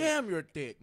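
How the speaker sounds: loud, high, real reproach; appalled outburst. Real, not acted. Friend reacting to the callous phone call, loud appalled outburst. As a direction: call him out at full voice.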